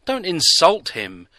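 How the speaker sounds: high, loud protest; alarmed protest. A narrator's reading. Kirsty stopping Neil insulting the stranger, high alarmed protest. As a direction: stop him before he insults him. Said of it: "Kirsty's eyes bulged".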